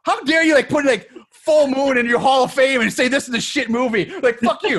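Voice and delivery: retold outrage. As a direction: imitate an angry fan's tweet. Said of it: "getting, like, legit pissed".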